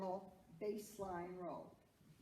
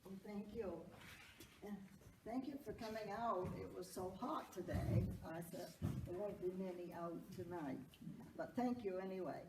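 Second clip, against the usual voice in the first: blocked nose from allergies; stuffed-up nose; 2 semitones lower, 3 dB quieter than usual. Real, not acted. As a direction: speak through a stuffed-up nose. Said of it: "I'm stuffed up with allergies".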